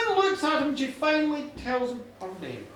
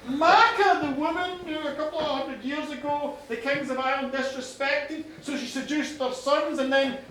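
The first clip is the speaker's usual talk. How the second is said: incredulous recital; 4 dB louder than usual. Acted. Farmer asking if she slaughtered kings' sons, incredulous. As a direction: list the legend in mounting disbelief. Farmer checks her legend in disbelief.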